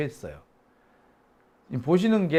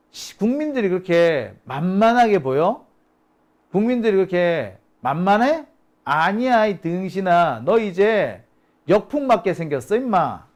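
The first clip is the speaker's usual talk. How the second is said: mocking; 4 dB louder than usual. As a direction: jeer at her, building to an indignant telling-off. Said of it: "라고 조롱을 한 거죠".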